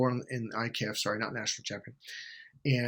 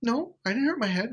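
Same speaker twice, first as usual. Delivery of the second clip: put-on girlfriend voice; 10 semitones higher than usual.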